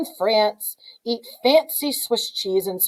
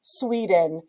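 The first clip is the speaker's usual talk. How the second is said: very slow, word by word; drawn out slowly; much slower than usual. Shown as a demonstration. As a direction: stretch each word out. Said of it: "you get the country of Norway".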